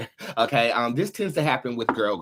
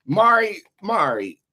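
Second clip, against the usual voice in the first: loud, higher call of a name; 3 semitones higher, 5 dB louder, slower than usual. Real, not acted. Calling out a name.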